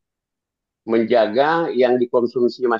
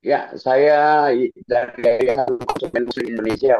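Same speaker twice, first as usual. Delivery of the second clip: corrupted glitchy audio. Real, not acted. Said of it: "Suaranya putus-putus".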